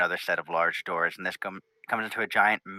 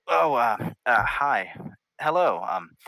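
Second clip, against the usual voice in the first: slightly higher, hesitant greeting; flustered princess; 4 semitones higher, 4 dB louder, slower than usual. Acted. Princess looks up from research at visitors, flustered. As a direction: caught off guard, stumbling into a hello.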